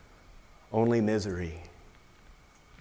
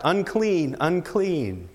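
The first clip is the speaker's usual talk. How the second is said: leper's cry; 4 semitones higher, slower than usual. Retold or imitated. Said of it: "they were obligated to cry out".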